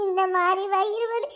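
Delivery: mock tearful moaning; fake crying. Friend faking stomach pain before Poomari, crying in a put-on moan. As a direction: whimper through a pretend stomach ache. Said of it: "அழாதடி".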